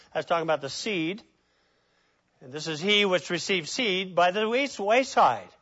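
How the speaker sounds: measured King James reading; solemn scripture read. Acted. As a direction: read the verse with weight. Reads scripture aloud.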